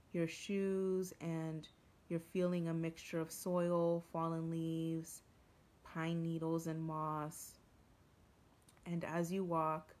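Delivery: measured meditation guide with long pauses; guided meditation. Real, not acted. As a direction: ease listeners into the forest scene, unhurried. Leads a forest meditation.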